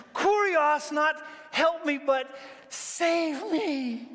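high cry for rescue; acted drowning plea, pitched high; desperate cry. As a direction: call out urgently as if sinking. Acts Peter sinking in the waves.

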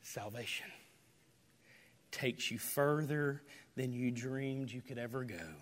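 ordinary talk, nothing marked

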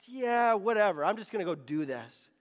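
mock whatever attitude; I-don't-care attitude. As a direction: brush it off, letting the voice sink at the end. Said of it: "I have this sort of "I don't care" spirit".

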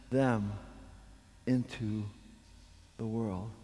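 low, measured reading, softening toward the end; solemn scripture reading. Real, not acted. Preacher reading Jesus' prayer to the congregation, low and solemn. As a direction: let the prayer settle, hushed and deliberate.

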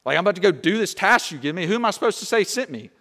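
lightly acted bewildered questioning; puzzled Moses voice. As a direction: voice a mildly flustered man asking God for instructions. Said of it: "Moses says".

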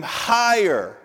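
a preacher voicing a cheering crowd's cry; crowd's yell. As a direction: shout it up like a festival crowd. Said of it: "they would scream".

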